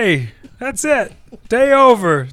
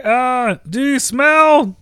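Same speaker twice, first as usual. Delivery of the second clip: slow hammy tagline; Rock catchphrase; 3 semitones higher, 4 dB louder, slower than usual. Acted. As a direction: lean into the famous line. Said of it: "Rock's signature line".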